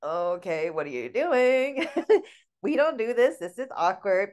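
a hint of a stiff, awkward mother; a daughter imitating her mother's stiff hug reply; stiff robot mom. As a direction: play the mom frozen mid-hug. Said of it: "she was just like a robot".

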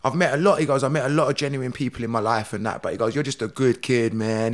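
a hint of a low, soft-spoken mentor; low-key imitation of an older friend; lightly voiced Steven Seagal. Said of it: "he says to me".

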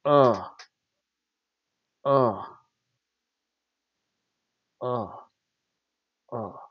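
half-hearted groans fading to very soft; imitated listless grunts. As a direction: grunt feebly at spaced intervals, dying away. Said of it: "Lacey Evans just like".

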